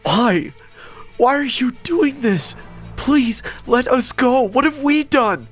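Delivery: high, frantic tearful pleading; terrified wailing questions; crying in terror. A narrator's reading. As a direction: beg for life in high-pitched terror. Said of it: "I started to cry in terror".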